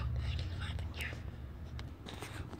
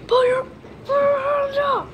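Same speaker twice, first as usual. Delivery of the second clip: louder, higher barked order from an officer; police command; 6 semitones higher, 6 dB louder than usual. Acted. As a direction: order hands up like a cop.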